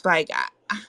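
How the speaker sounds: tipsy, slurring a little. Real, not acted. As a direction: talk like you've had a few drinks. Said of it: "I'm tipsy".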